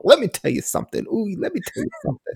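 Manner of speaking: wrestling promo. Retold or imitated. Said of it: "they were all".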